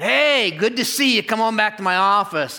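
high, bright fake welcome, covering nerves; forced cheery greeting. Pastor greeting a feared church member with nervous cheer. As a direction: greet him too cheerfully, hiding the dread.

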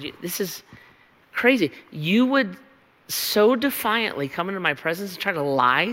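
stern voice of God, rising in anger; a touch of the angry judge; God confronting liars. Acted. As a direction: rebuke them as an offended God. Preacher voices God judging liars.

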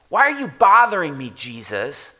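demon yelling. Retold or imitated. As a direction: throw it at Jesus, then name him. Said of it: "this thing's yelling at Jesus".

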